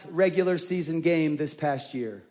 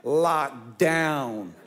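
mock-tough laughing; 6 semitones lower, much slower than usual. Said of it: "we're like".

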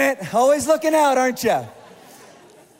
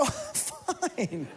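much softer, tight 'I'm fine'; strained denial; 2 semitones higher, 10 dB quieter than usual. Retold or imitated. Husband to worried wife Jill on the plane, quiet and strained. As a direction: squeeze out 'I'm fine' barely above a breath. Panicking man insists he's fine.

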